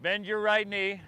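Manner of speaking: breathless, puffing between cues; talking while winded mid-flow; out of breath. Real, not acted. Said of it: "Well, I'm out of breath".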